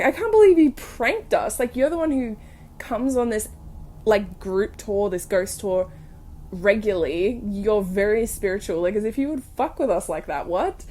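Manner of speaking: playful outraged scolding; mock indignant rant. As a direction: scold her with half-joking outrage. Retold indignant rant at prankster.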